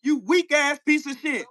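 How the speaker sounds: plain first take of the insult; contemptuous insult. Real, not acted. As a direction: spit out each insult. Insulting opponent, repeated slower.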